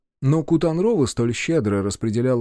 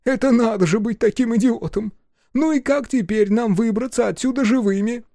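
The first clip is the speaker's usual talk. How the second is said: angry; 11 semitones higher than usual. Acted. Ki Aton keeps raging.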